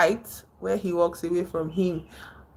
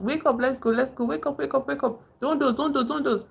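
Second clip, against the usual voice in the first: rapid, higher-pitched repeated urging; quick chanted wake-up calls, pitched up; urging him awake; 7 semitones higher than usual. Retold or imitated. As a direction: act out a friend insistently waking someone. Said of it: "started waking him up".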